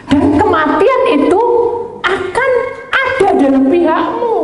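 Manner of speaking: high, slow, dramatic warning of death; preacher warning of coma and death, slow and loud; ominous warning. Acted. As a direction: intone doom slowly.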